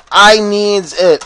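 I needs it stretched slow and loud; hammed-up whiny craving; drawn-out mock plea. Gamer jokingly begging for vengeance, slow hammed-up plea.

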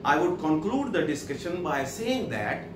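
very slow, word by word English reading; slow dictation. Shown as a demonstration. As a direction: read it out slowly for the class to follow. Reads English text slowly. (धीमी आवाज़ में पढ़ना)

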